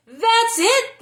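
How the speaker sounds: high, loud joyful shout. A narrator's reading. Villagers shouting after tasting the bread. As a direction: cheer it out. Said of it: "they shouted".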